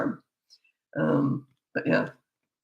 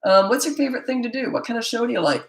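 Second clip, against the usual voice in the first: put-on higher, eager questions to a child; friendly curious asking; 5 semitones higher than usual. Shown as a demonstration. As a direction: keep it light and interested. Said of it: "you say".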